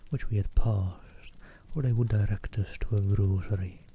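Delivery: hushed storybook reading; whispered reading. Acted. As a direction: read it in an ASMR whisper. Whispered ASMR reading continues.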